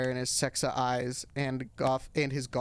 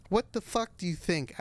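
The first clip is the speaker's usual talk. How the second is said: angry retort; 5 semitones higher than usual. Acted. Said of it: "I asked angrily".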